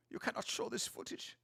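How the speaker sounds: hushed, breathy, conspiratorial whisper; mock whisper. Streamer hushing chat about forbidden footage, mock whisper. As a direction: pretend the clip is secret.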